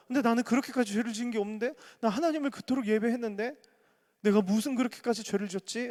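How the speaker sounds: high, fast, disbelieving self-questioning; bewildered protest. Acted. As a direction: protest your innocence in disbelief.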